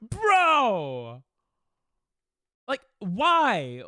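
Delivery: loud exasperated cry at the game; real gamer frustration, loud; frustrated outburst. Real, not acted. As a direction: yell at the screen in disbelief. Game keeps failing, frustrated outburst.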